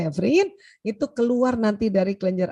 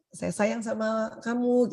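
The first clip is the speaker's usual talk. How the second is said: ucapan sayang; 5 dB quieter, slower than usual. Retold or imitated. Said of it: "ibu kan yang sering".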